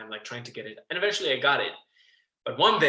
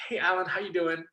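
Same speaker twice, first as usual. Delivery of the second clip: higher, eager phone greeting; retold excitement; 5 semitones higher than usual. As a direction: cheerily answer the call, acting it out. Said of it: "he listened to my excitement".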